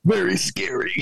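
breathy spooky whisper. Acted. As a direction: hush it like a secret. Spooky aside about a scary film.

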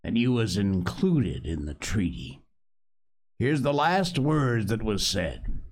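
sea cook laying down terms with a grin; Long John Silver. Acted. Pirate cook offers the boy a choice, coaxing.

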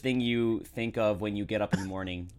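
slow, careful attempt at an American accent. Australian host, dared by co-host, attempts an American accent. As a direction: try on an American accent, a little nervous. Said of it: "last rapid fire in American accent".

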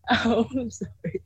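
apologizing through a nervous giggle; nervous laugh. Real, not acted. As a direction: laugh it off, embarrassed. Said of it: "nervous laugh every now and then".

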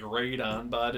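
Canadian "right" with a "rate" vowel; hick Canadian accent. Shown as a demonstration. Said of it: "But people say".

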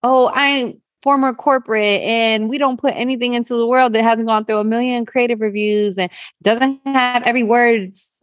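lightly voiced polished corporate self; mock her old corporate self. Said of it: "I've hidden behind".

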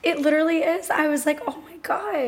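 hoarse lost voice; raspy voice. Real, not acted. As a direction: talk through a shot voice. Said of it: "raspy voice that you have".

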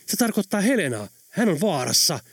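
alarmed by the danger to Helena; frightened voice. Acted. Pekka warns the others, startled and urgent. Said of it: "hän sanoi säikähtäneellä äänellä".

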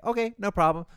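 bright fake-cheerful reply; chirpy customer service. Hotel clerk to a complaining guest, chirpy.

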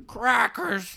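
squawky bird voice; parrot voice. Acted. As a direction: talk like a pet parrot. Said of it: "what's your favorite thing about being a parakeet".

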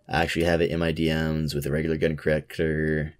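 talking while chewing gum; words slurred round chewing gum. Real, not acted. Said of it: "I'm chewing gum right now".

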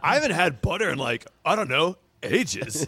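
lightly voiced cool-guy puppy; a hint of laid-back dude. Puppy recalling butter, cool dude. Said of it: "has to be kind of a cool guy".

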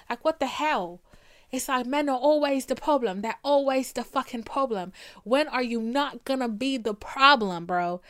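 worked-up venting at men; getting pissed off. Real, not acted. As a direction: let real irritation build as you vent. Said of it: "I just got pissed off for a sec".

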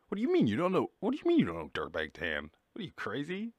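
mock outraged disbelief. Streamer imitating himself scolding people who don't know Dirtbag Tan, mock shocked. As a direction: act stunned that they never heard of him. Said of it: "And I'm like".

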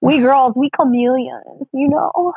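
put-on comic broken-English accent, lightly done; slow, drawn-out mock foreign accent; mock foreign accent with a rising end; Miss Swan. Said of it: "did you just go Miss Swan".

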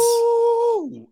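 high, loud squeal of delight; very high delighted ooh at the helmet reveal. Real, not acted. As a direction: swoon over the helmet. Reacting to new helmet reveal.

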